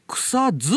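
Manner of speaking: 草津 said kusa-ZU, with a voiced zu; voiced ending. Shown as a demonstration. Host shows guest the old name of the town, 草津 voiced as kusazu. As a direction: say 草津 with the last sound voiced, "kusazu". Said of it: "濁ってたらしいよ".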